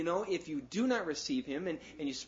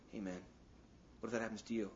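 sly devil's whisper; 6 semitones lower, 10 dB quieter, much faster than usual. Retold or imitated.

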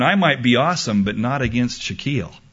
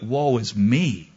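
lament; 2 semitones lower, slower than usual. Retold or imitated.

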